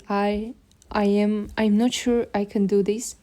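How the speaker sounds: slow, hesitant stammer on the first words; stuttering. Retold or imitated. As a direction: stumble nervously over I and am. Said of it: "Pronunciation is slow and hesitant".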